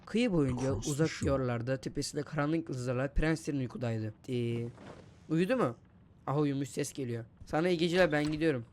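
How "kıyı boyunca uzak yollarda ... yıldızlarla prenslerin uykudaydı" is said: bedtime story reading. Pretend. Reads bedtime story to game baby.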